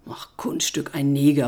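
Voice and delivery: low, dry grumble; grumbling. Acted. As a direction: brush it off gruffly. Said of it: "brummte er". (tief und trocken brummend)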